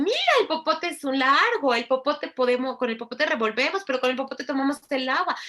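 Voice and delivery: put-on high, loud, singsong talk to a toddler; animated parent to child. Shown as a demonstration. Showing parents how to narrate a straw to a child, high singsong. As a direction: make the straw sound fascinating. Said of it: "con el popote estimulen".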